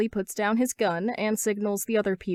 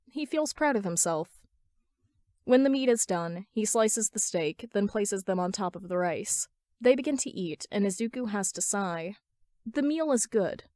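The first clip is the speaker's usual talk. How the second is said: ordinary delivery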